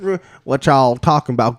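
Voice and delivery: put-on a bird with a Texas accent; Texas pigeon. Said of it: "It's like a Texas pigeon".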